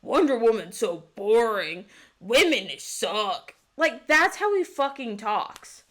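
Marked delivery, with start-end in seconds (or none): 0.0-3.5 mocking edgy twelve-year-old. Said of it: "it sounds like an edgy twelve-year-old".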